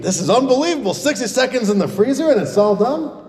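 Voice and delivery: can't believe it worked; amazed disbelief. Acted. Owner stunned the freezer trick worked, amazed.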